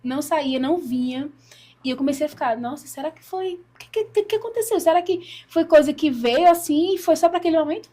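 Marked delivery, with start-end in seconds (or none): 2.6-7.9 higher-pitched wondering to oneself; retold puzzled worry. Woman recalls doubting her experience, retold puzzled questioning. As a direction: run through anxious questions, lightly acted.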